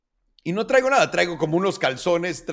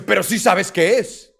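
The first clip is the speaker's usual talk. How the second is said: sly cop; 5 semitones higher, 7 dB louder, slower than usual. Retold or imitated. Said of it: "Y me dice".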